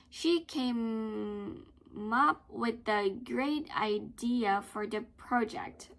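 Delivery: slow reading, up stressed; slow teaching read of the sentence. Shown as a demonstration. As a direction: lean into up and let it fall. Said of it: "you stress".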